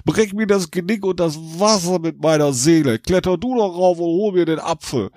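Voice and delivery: put-on a sly drunk talking the devil into climbing; drunk Jack. A narrator's reading. Drunk Jack coaxing the devil up the tree. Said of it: "Jack meinte".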